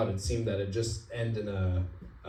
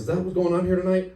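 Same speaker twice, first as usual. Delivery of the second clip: higher, pushy disbelieving question; incredulous cop; 8 semitones higher, 4 dB louder than usual. Retold or imitated. Cop confronting half-naked driver, incredulous and loud. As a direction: demand an answer, baffled.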